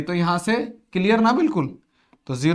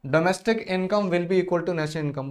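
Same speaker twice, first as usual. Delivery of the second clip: drawn-out reading of the option; slow dictation of choices; much slower than usual. Shown as a demonstration. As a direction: read each option slowly for the class.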